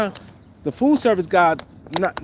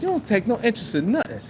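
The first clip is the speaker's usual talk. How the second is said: mock annoying voice; 4 semitones higher, faster than usual. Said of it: "annoying little voice".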